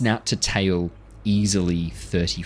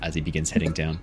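normal talking voice

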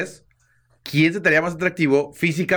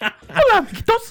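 very high-pitched put-on voice. Imitating the way a person sounds: Mickey Mouse voice. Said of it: "Se oye como Mickey Mouse".

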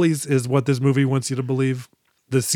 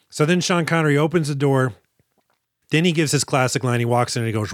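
ordinary talk

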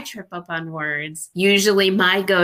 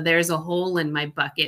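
usual speaking voice

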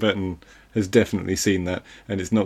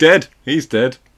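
very loud, high, proclaiming shout; 5 semitones higher, 8 dB louder than usual. Imitating a dad watching a film, pointing at the screen: imitating dad shouting at the screen. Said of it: "pointing at the screen and going".

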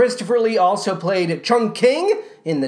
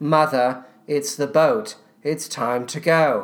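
flattest possible monotone, dead flat delivery; 7 semitones lower than usual. Doing an impression of a kid from audio the speaker won't play, flattest possible delivery. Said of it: "The flattest delivery you could ever imagine".

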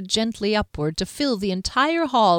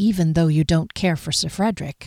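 voice lowered further, even more quietly; 3 semitones lower than usual. Reading a woman's line to Derry: voice lowered further. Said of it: "she lowered her voice even further".

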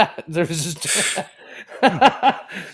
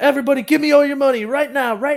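put-on screaming voice, higher; 6 semitones higher than usual. Retelling how a robber ran into a nail salon: retelling a robber yelling. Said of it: "yelling and screaming".

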